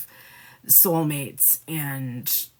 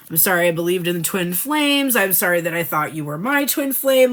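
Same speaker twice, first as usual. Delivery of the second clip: louder, insincere apology; unkind apology; 5 dB louder than usual. Acted. Voicing the Feminine to her twin flame, unkind apology. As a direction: throw the apology at them, louder. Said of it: "this is not a genuinely, like, kind apology".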